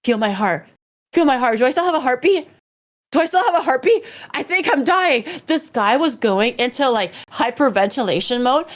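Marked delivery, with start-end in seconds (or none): 0.0-5.2 rising, higher, frantic imitation; mock panic. Friend on his bed begging to check his heart, mock panic. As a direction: ham up a friend sure he's dying. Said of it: "he was like".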